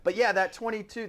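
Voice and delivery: laughing through the words; chuckling it out; a real laugh while talking. Real, not acted. Laughing at start of chat.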